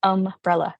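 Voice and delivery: "Umbrella" with UM set apart; attempted UM stress. Shown as a demonstration. Speaker copying friend's version, attempted UM-brella. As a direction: try stressing the first syllable of Umbrella. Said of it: "I can't do umbrella".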